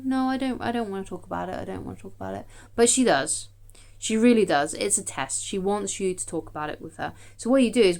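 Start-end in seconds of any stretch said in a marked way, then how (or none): 0.0-2.4 lightly voiced sulky partner; mock girlfriend refusing. Imitating girlfriend refusing to talk.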